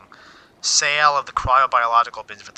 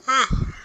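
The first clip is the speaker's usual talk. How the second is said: big yawn; 14 semitones higher, 5 dB louder than usual. Real, not acted. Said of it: "I'm yawning a lot today".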